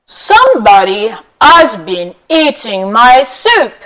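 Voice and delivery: lightly voiced big papa bear, drawn out. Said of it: "Papa Bear says".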